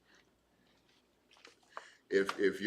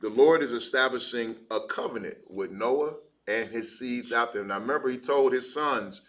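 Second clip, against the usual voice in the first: louder rising preacher's build through the list; preaching; 2 semitones higher, 4 dB louder than usual. Acted. Preacher stresses to class that the flood destroyed everything, rising emphasis. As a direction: drive each "every" home like a preacher.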